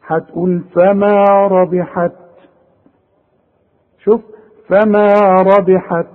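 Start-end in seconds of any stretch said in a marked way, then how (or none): 0.7-2.1 slow recitation stopping on ربحت with a puff of air on ت; breathy final ت. Shown as a demonstration. Teacher shows a pause on ربحت, ت released in a slight whisper of air. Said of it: "وطلع لي همس بسيط، شوية هوا". 4.7-6.1 slow recitation stopping on ربحت with a puff of air on ت; breathy final ت. Shown as a demonstration. Teacher shows a pause on ربحت, ت released in a slight whisper of air. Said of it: "وطلع لي همس بسيط، شوية هوا".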